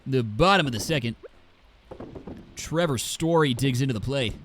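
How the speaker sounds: lightly mocked commentator with skewed vowels; congested sports announcer. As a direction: imitate a slightly stuffed-up play-by-play voice. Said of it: "slightly congested and put an A in everything".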